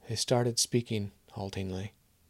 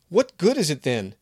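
raised, bitter question; angry demand; 7 semitones higher, 7 dB louder than usual. Acted. Kevin angrily challenging Maria's small magic. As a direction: throw the question at her.

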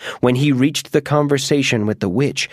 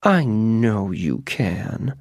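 witch, slow and soft; 2 semitones lower, 4 dB quieter, much slower than usual. Acted. Witch answering the mouse, slow and soft. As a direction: drawl it softly, sure of herself. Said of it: "the witch said".

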